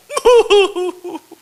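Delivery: high, loud, wobbling howl; exaggerated wail. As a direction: let out a hammed-up quavering wail. God and reluctant Moses, acted.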